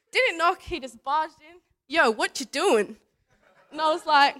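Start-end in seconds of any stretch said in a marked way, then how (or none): 1.9-3.0 lightly voiced brash kid, slow and loud; a drawn-out, loud casual call. Kid barging into a room to ask, lightly imitated brashness.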